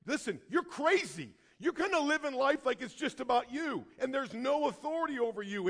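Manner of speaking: grab the listener with each warning; urgent prophet warning. Acted. Prophet grabbing the people by the arms, urgent warning. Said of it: "he's grabbing you by the arms and like".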